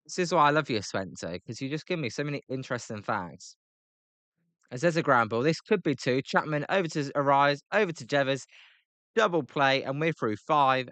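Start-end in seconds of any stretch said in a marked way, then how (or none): 4.7-10.9 higher-pitched running commentary; live play-by-play. Real, not acted. Commentator calls a double play as it happens, live play-by-play. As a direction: call the play as it unfolds.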